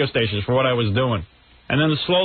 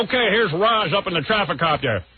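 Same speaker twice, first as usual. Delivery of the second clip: lightly put-on radio host, higher; Imus; 4 semitones higher than usual. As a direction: hand over to the traffic report. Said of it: "I'll do an impression of Imus".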